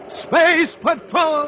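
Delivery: drawn-out booming title, high and slow; slow soaring radio title announce; announcer title call. Acted. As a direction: call the show's name like a fanfare.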